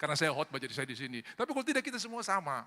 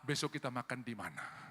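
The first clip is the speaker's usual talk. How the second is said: middle-class speaker; 4 semitones lower, 7 dB quieter than usual. Acted. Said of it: "Kalau yang di tengah".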